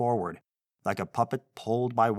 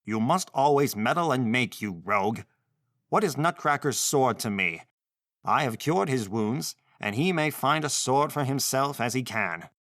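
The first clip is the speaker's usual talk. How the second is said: angry; 2 semitones higher than usual. Acted. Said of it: "replied the counselor angrily".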